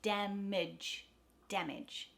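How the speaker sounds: Damage with lax second syllable; schwa in damage. Shown as a demonstration. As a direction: DAM stressed, mage reduced. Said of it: "second A becomes a schwa".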